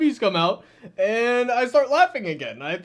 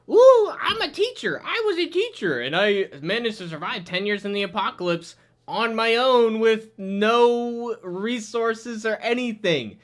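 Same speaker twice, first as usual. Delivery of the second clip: mock boastful. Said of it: "she's like".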